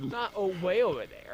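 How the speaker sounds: calling out across the ice; shouting. Real, not acted. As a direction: shout it over the distance.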